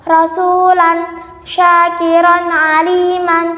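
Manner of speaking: thick, heavy r in "rasulan, syakiran"; "rasulan, syakiran" recited with heavy ra; tafkhim. Shown as a demonstration. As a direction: round the ra darkly in "rasulan, syakiran". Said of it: "ro yang dibaca tafkhim".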